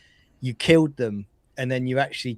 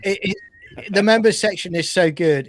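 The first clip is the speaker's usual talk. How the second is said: higher, louder sales pitch; sales endorsement; 6 semitones higher, 6 dB louder than usual. Pretend. Co-host endorsing the member section on request, hard sell. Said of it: "give me an endorsement. Sell it, bro".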